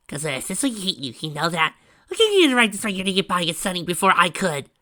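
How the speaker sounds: high, loud, playful ranting; shouting. A narrator's reading. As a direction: yell it down the phone, half laughing. Pinky shouting at Rose on phone.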